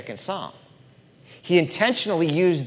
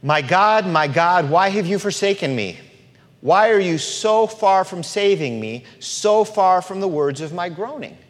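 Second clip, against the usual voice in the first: Jesus' cry; 4 semitones higher, 5 dB louder than usual. Shown as a demonstration.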